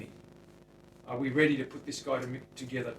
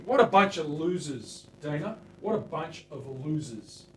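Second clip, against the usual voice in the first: loud, higher mock jeer; mock taunt; 3 semitones higher, 9 dB louder than usual. Taunting rejected buyers while he works, loud mock jeer. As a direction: jeer at the losers for fun.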